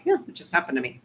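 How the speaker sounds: matter-of-fact shrug in the voice; understated, nonchalant admission; casual acceptance. Acted. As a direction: say it offhand, like it's no big deal. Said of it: "And now I'm like".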